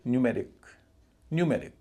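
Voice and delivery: न्यूमेरिक with full "nyoo" and stressed "ME"; heavy first syllable. Shown as a demonstration. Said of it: "यू जो है वह भी भारी है".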